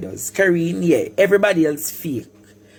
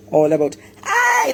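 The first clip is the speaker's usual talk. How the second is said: 1 crying shout; 9 semitones higher than usual. Real, not acted. Ranting cry at fake friends.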